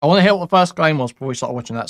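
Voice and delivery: talking while eating cereal; words around a mouthful of cereal. Real, not acted. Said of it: "Sorry, I'm taking cereal while I'm".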